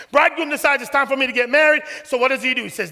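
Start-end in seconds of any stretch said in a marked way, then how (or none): 0.1-0.8 bridegroom decides, higher and louder. Shown as a demonstration. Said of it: "listen to this now". 0.8-2.6 preaching shout. Real, not acted.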